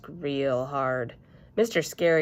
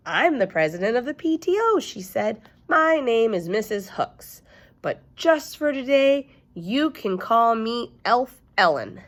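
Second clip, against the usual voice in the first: higher, louder bubbly elf lady; cheery shop lady; 6 semitones higher, 4 dB louder than usual. Acted. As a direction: greet the class like a peppy volunteer. Cheery gift shop lady greeting.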